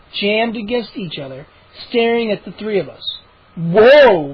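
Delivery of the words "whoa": loud startled whoa; startled cry. Acted. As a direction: cry out at the sight. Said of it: "Moose cried".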